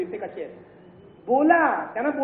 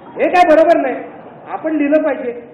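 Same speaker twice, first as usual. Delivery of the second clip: louder, higher protest in a retold argument; heated retort; 4 semitones higher, 9 dB louder than usual. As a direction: insist loudly that it is wrong. (जोरात, तावातावाने सांगितलेले)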